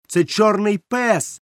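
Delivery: high slow shout, пес held and falling; boy shouting to warn the tavern; alarmed shout. A narrator's reading. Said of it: "закричав я".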